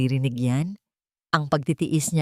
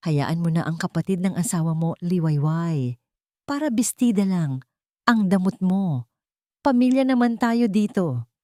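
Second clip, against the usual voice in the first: scolding mother-in-law. Acted. Puri voiced from the kitchen.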